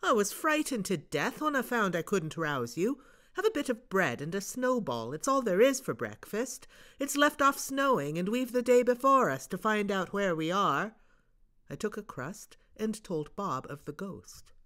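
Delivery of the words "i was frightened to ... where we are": put-on higher, eager boy's voice, relieved; a scared boy now keen to explore; Bob, boyish and excited. Bob's voice, frightened then eager.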